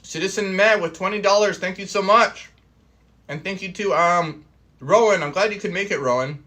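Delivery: chewing steak while talking; mouth full. Real, not acted. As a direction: talk through a mouthful of steak. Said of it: "I'm talking with my mouth full".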